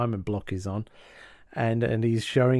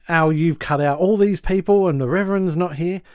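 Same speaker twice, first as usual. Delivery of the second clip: mildly indignant, higher-pitched mock rant; retold angry rant; 4 semitones higher than usual. Marcy complaining to Al about the ruined wedding, mock indignant. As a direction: imitate a wife going off at a man. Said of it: "Marcy's going off her nut".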